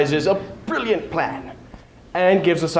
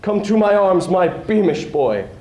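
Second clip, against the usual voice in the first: louder, higher, delighted father; chortling in joy; 5 semitones higher, 3 dB louder than usual. Acted. Father greeting his returning son, joyful chortle. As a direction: burst with gleeful pride. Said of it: "He chortled in his joy".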